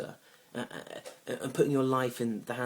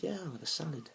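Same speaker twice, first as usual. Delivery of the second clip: lightly voiced date in a higher pitch; a higher-pitched imitation of the date; date's reply; 7 semitones higher, 3 dB quieter than usual. Date answering his offer of food, lightly imitated.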